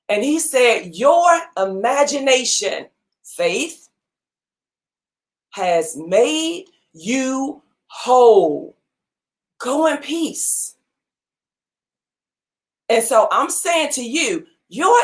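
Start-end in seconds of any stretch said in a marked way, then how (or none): 1.0-10.8 slow, tender pronouncement; a hint of Jesus, slow and gentle; gentle blessing. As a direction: bless her slowly and kindly.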